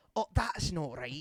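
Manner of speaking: Scottish-accented speech. Describing learning a Scottish accent, saying his warm-up phrase in a Scottish accent. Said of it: "how to do a Scottish accent".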